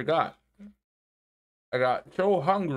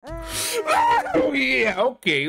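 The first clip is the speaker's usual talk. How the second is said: excited laughing shout; 13 semitones higher, 5 dB louder, much slower than usual. Real, not acted. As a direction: yelp then laugh it out. Sudden win, shouts and laughs.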